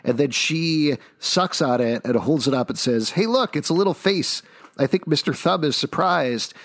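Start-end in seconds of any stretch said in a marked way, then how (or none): 3.1-6.6 high, lightly acted cheerful girl; playful higher-pitched quote; retold chirpy remark. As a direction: quote her brightly, pitched well up. Retelling girl's cheerful words in a comic.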